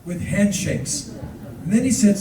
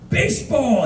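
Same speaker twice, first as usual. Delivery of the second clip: fond farewell; 8 semitones higher than usual. Retold or imitated. Tourist's farewell to driver.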